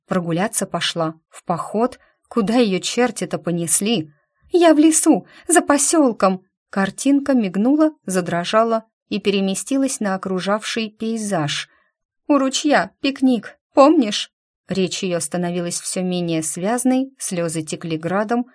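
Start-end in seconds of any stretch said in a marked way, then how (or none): 4.5-6.4 high, loud, tearful; panicked tearful call. A narrator's reading. Lost girl tells Lika where she is, high panicked cry. Injured girl crying for help. 12.3-14.3 high, loud, tearful; panicked tearful call. A narrator's reading. Lost girl tells Lika where she is, high panicked cry. Injured girl crying for help.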